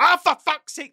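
loud, high exasperated yell; a furious auntie's outburst; retold shout. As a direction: bellow it in sudden outrage. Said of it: "just shouted".

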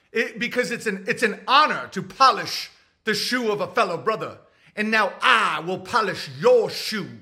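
lightly voiced formal shoeshiner; imitating a solemn brother. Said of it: "And they're like".

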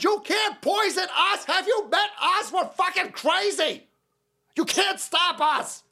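gleeful taunt. Real, not acted. Taunting the establishment.

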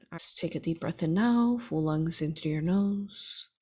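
measured, unhurried meditation guide with long pauses for breath; guided meditation. Real, not acted. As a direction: lead listeners steadily through each breath and image.

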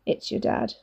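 breathy warning whisper; hushed warning. A narrator's reading.

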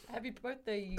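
badly faked South African accent; joking about voice filters, poor attempt at South African; terrible South African accent. Have a clumsy go at South African. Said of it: "I can't do a South African accent".

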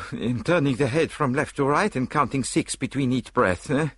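high, lilting Belgian-French detective; prim little Belgian sleuth musing aloud; Poirot voice. Acted. Poirot doubting to Hastings, in a high Belgian lilt.

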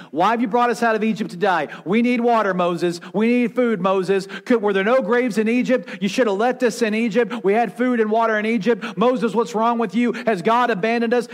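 mock bickering, quick and insistent; complaining. Israelites complaining to Moses that they need water, mildly hammed-up complaint. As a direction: pile up the grievances in a pestering stream. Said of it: "They kept bickering and complaining".

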